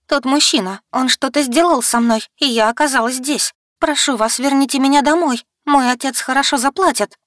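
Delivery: high, loud tearful pleading. A narrator's reading. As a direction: beg through tears to go home. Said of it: "Я вновь залилась слезами".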